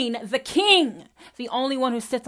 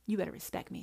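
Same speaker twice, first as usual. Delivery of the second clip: quiet mock Christian; 5 semitones lower, 11 dB quieter, faster than usual. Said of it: "says the Christian".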